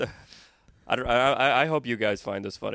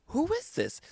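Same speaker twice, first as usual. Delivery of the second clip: put-on much higher confused old aunt; high mock confused aunt; shrill aunt; slower than usual. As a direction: squeak it out puzzled. Aunt on the phone.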